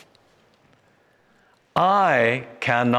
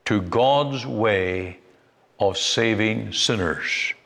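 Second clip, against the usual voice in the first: slow, deliberate repeat. Shown as a demonstration. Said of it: "Let me say that again".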